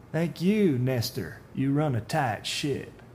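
veiled threat, lightly voiced; a hint of a menacing stranger. Voices the man in the dark suit.

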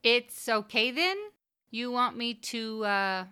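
high, tentative woman's voice; timid question. Acted. B J asking her lover's permission, timidly. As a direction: ask timidly, pitched high, faltering into an "uh". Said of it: "she asked timidly".

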